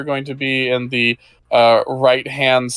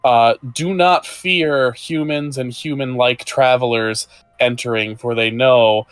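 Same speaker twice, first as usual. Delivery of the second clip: game master narration. A narrator's reading. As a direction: paint the woods for the players. GM scene setting.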